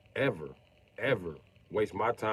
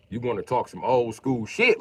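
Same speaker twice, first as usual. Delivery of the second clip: calling out; 2 semitones higher, 5 dB louder than usual. Real, not acted. Calling out a viewer in chat.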